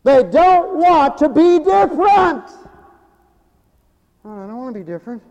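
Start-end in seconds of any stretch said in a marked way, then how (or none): 4.2-5.2 mock conformist.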